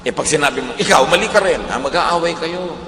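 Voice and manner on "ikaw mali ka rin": louder, higher blaming comeback; acted retort. Acting out answering back in a quarrel, loud mock retort. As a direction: fire the blame back, hammed-up.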